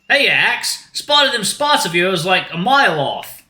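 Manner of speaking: high, loud, drawn-out dude greeting; laid-back shark dude. Acted. Shark greets old friend Axel, high slow dude voice.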